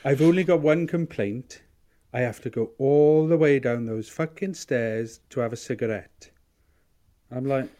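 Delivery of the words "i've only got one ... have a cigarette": a louder, higher dad voice griping; the same dad voice, now with one complaint; Keitho impression. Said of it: "he said".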